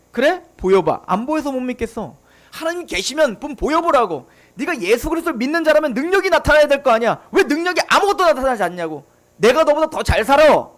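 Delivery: 비웃듯 따지는 세상 사람 흉내; mocking skeptic. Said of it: "세상 사람들이 우리에게 요구하는 겁니다".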